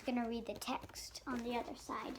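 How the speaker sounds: whispered aside to mom; hushed, unvoiced explanation. Real, not acted. Child whispering the plan to the listeners.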